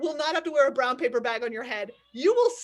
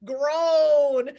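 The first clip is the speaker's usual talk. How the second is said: loud groan; 7 dB louder than usual. Shown as a demonstration. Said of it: "type in all caps".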